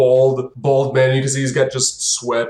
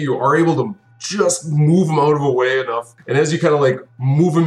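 normal talking voice

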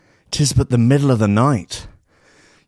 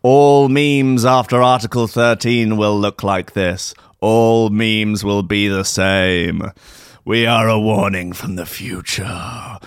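slow, lower, mock-solemn ghost; ghostly voice; 3 semitones lower, slower than usual. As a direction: drone the warning like a doom-laden spirit.

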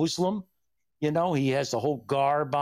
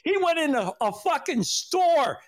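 laughing; 9 semitones higher than usual. Real, not acted. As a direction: drag it out while still cracking up. Recalling laughing hard.

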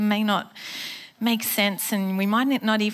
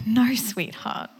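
tender reply; slower than usual. Retold or imitated. God answering his worried daughter, slow and tender. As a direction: soothe her slowly, like a loving father. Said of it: "And he's like".

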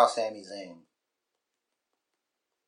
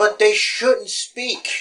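mock silent movie; 11 semitones higher, 5 dB louder, much slower than usual. Joking about silent promos.

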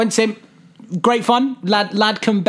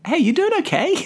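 mock concern; 10 semitones higher than usual. Teasing the crying woman.

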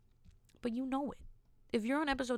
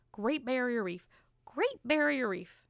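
slow, drawn-out cartoonish catchphrase; lightly cartoonish, lifting then falling; Mickey; 3 semitones higher, slower than usual. Student repeating her catchphrase until others say it, lightly Mickey-like. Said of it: "I sound like Mickey there for a minute".

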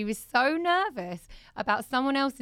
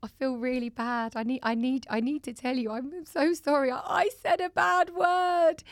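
crying child, imitated; 3 semitones higher than usual. Mum acting out her daughter's crying confession, mock wail. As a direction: imitate a child's anguished confession, drawn out at the end.

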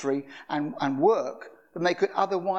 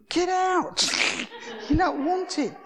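commanding rebuke; 13 semitones higher, slower than usual. Retold or imitated. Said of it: "I just prayed".

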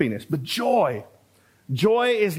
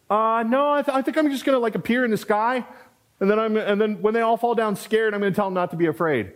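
higher, hesitant angel voice, a bit embarrassed; sheepish angel; 5 semitones higher than usual. Pretend. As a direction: answer like a shy angel caught out.

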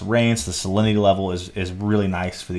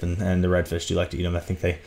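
out of breath. Real, not acted. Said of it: "Whew, I'm out of breath".

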